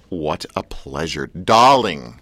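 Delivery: put-on Mid-Atlantic accent. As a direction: put on a thirties film star accent. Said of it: "I'm trying to do my Mid-Atlantic thing".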